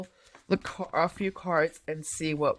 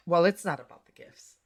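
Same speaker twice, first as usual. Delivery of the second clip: condescending tone; 2 semitones lower than usual. Retold or imitated. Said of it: "Do you see that tone?".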